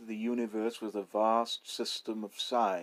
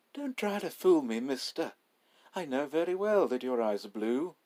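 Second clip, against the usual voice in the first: knowing robber; 6 semitones higher, 4 dB louder than usual. Acted. Robber rejects the lie.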